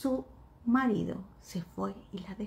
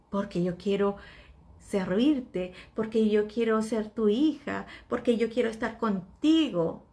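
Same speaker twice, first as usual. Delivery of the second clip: louder, pleading prayer to the Lord; fervent prayer; 5 dB louder than usual. Acted. Believer praying to the Lord, pleading louder. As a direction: cry out to God with your whole heart.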